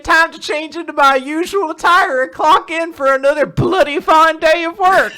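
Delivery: loud, high-pitched Cockney worker; hammed-up Cockney, big and high; Cockney accent. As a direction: belt it out in a broad Cockney accent. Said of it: "this form of a Cockney accent".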